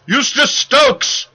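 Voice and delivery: high, slow called-out name; shouted name. A narrator's reading.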